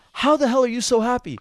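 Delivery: high, loud, incredulous; stressed man asking. Retold or imitated. Stressed man asks a whistling stranger, incredulous shout. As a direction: demand it in disbelief. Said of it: "And he goes".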